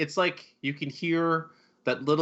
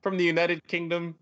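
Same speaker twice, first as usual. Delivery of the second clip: higher, incredulous question; pitched-up wondering disbelief; mock disbelief; 6 semitones higher than usual. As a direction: act amazed he's really British. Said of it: "I was like".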